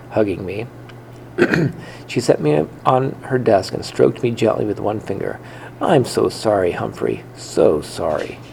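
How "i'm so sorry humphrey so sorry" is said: tender apology. Acted. Girl comforts frightened hamster.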